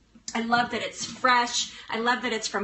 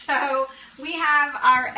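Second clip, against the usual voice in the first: normal talking voice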